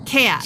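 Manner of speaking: "Cat." with a nasal A drawn into two syllables. Shown as a demonstration. Teasing the host's upstate New York vowel, nasal drawn-out cat. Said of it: "C A T is a two-syllable word".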